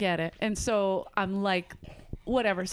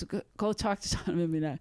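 imitated Boston waitress, lower pitch; Boston accent; 4 semitones lower, 4 dB quieter, faster than usual. Waitress sending her coworker to the table, Boston accent. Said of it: "you do the Boston accent really well".

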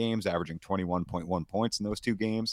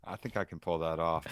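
soothing Canadian voice; 4 semitones lower, 5 dB quieter than usual. Pretend. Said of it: "yeah, that's what I was talking about".

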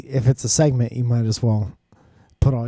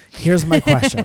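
high mock announcer; 10 semitones higher, 6 dB louder than usual. Repeat in put-on voice.

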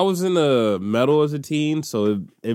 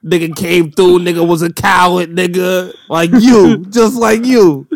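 hype rant; 4 semitones higher, 5 dB louder than usual. Acted. Rapping hype about Hobbit bars.

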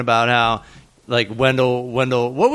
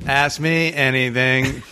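robot voice; slower than usual. Pretend. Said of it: "do the robot voice now".

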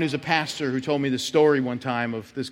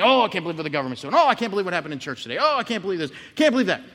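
mock complaining; 2 semitones higher, faster than usual. Preacher imitating the rebellious man griping in the car, fast mock whine. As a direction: rattle off gripes like a chronic complainer. Voicing the complaining church member.

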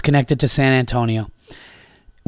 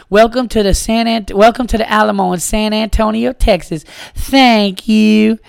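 high, loud chirpy announcer lady; tour lady voice; 7 semitones higher, 3 dB louder than usual. Retold or imitated. Comic quoting the Alamo lady to the crowd, high chirpy greeter. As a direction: sing it out like a tourist guide. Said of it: "there's a scene where the lady says".

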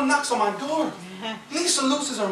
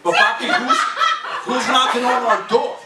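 wife imitated; 2 semitones higher than usual. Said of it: "wife voiced, high pitch jump".

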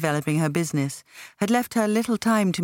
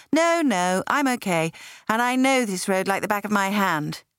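lightly higher friend's voice, reassuring; Patsy brushing off the offer, a touch higher; Patsy voiced; 4 semitones higher than usual. Patsy answers while driving.

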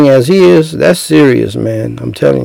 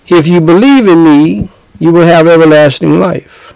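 matter-of-fact Jesus; 4 semitones higher than usual. Retold or imitated. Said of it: "he said this matter of factly".

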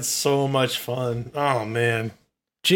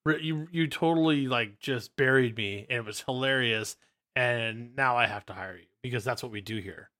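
very slow, hushed imitation of a boss; boss quietly conceding; 8 dB quieter, slower than usual. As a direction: draw it out softly, pausing between phrases. Boss grudgingly concedes in retold story.

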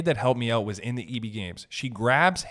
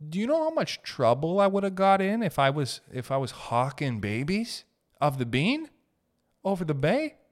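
mock outrage; 6 semitones higher than usual. Mock outrage at childhood trouble.

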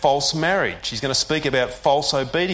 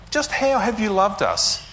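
higher, pushing sceptical question; cynical challenge; 6 semitones higher than usual. Retold or imitated. Israel challenging God, cynical. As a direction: lean on how with scorn. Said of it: "a hint of cynicism".

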